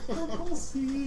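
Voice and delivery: "Double C" stretched slow and high; drawn-out Double C. Pretend. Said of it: "all I heard was double C".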